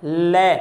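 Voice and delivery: ਲੈ said alone, low and drawn out, for the class to copy; sounding out the letter. Shown as a demonstration. Teacher models ਲੈ for the children, low and deliberate. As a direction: model ਲੈ slowly and clearly with the tongue tip on the teeth. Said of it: "ਲੈ ਦਾ ਉਚਾਰਨ ਕਰੋਗੇ".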